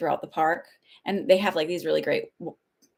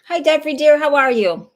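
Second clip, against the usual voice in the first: high, loud delighted hello; light up greeting a dear friend; gushing welcome to a regular viewer; excited greeting; 9 semitones higher, 10 dB louder than usual. Real, not acted. Greeting a viewer who joined.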